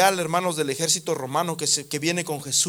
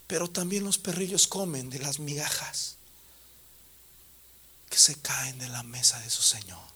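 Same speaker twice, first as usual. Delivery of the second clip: hushed tender voice of Jesus; 4 semitones lower than usual. Acted. Jesus speaks softly to woman.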